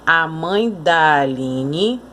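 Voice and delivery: slow, da swallowed into mãe; "mãe da" run together, "da" light and weak; weak unstressed da. Shown as a demonstration. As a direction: let "da" glide unstressed off "mãe". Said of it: "Aqui eu digo assim".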